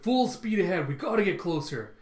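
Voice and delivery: excited captain's order; acted command. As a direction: call out an urgent order, starting high. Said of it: "And Luffy's like".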